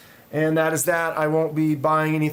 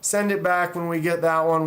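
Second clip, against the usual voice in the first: mimicking company rep; 5 semitones higher, 3 dB louder than usual. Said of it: "they're like".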